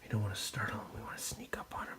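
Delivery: hushed nature-documentary whisper; wildlife watching whisper. Pretend. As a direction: whisper as if stalking wild animals. Pretending to sneak up on animals.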